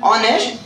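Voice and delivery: ऑनेस्ट said onest with no h sound; honest, silent h. Shown as a demonstration. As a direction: say ऑनेस्ट starting on the vowel, h silent. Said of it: "इसको क्या बोला जाता है". (ऑनेस्ट को बिना ह की आवाज़ के बोलो)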